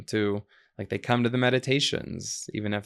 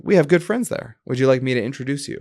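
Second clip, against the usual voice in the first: imitating an Indian woman's accent, higher and louder; lightly put-on Indian accent, friendly offer; 4 semitones higher, 7 dB louder than usual. Retreat woman offering to introduce him, mock Indian accent. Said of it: "in an Indian accent".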